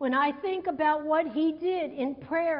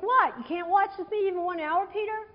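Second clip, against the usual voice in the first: exasperated; 3 semitones higher than usual. Shown as a demonstration. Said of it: "I read this in King James, it's like".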